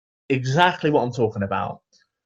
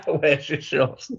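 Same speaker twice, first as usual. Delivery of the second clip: laughing echo; 3 dB quieter, slower than usual. Real, not acted.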